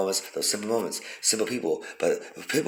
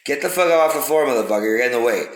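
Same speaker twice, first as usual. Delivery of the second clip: angry yell; 3 semitones higher, 4 dB louder than usual. Retold or imitated. A stranger yells at the man on the floor, mock angry shout. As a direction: bark at the man blocking the way.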